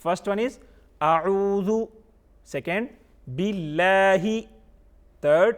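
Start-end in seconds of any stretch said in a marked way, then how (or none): 1.0-1.7 deliberate teacher's recitation of a single part; model recitation. Shown as a demonstration. Teacher models the first part for children, measured recitation. 3.3-4.2 drawn-out recited syllables; model recitation. Shown as a demonstration. Teacher models the second part for children, measured recitation.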